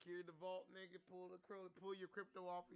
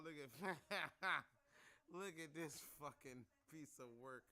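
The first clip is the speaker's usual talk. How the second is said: laughing. Real, not acted. Laughing at a rapper's photo.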